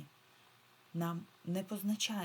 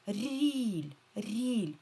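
РІЛЬ higher and loud, vowel stretched; isolated syllable; 4 semitones higher, 5 dB louder than usual. Shown as a demonstration. Teacher isolates the second syllable, drawn out. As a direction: ring out РІЛЬ as a lone syllable. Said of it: "Далі другий склад".

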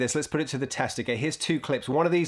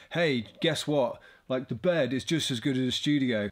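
mock noob. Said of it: "I'm not being a total noob and saying".

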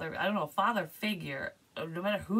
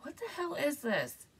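higher, sudden puzzled outburst; shocked at what she sees; startled; 10 semitones higher than usual. Real, not acted. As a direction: caught off guard. Reacting to sudden vision.

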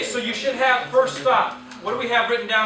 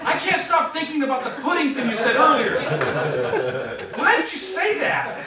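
louder, higher, through laughter; quoting the husband while cracking up; laughing husband quote; 4 semitones higher, 4 dB louder than usual. Real, not acted.

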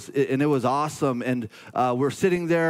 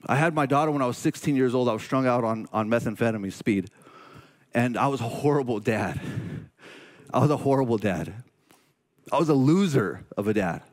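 low, subdued confession, voice sinking; fighting emotion while admitting past failures; holding back tears; 3 semitones lower than usual. Real, not acted. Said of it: "try not to get emotional here".

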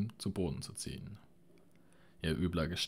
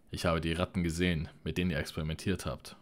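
loud, fast outraged cry; shouting; 5 dB louder, faster than usual. Acted. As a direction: shout it at him in disgust. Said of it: "schrie Jaina".

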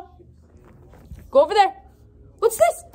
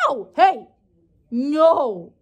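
bitten yelp; 3 semitones higher, much slower than usual. Real, not acted. Puppy bites her.

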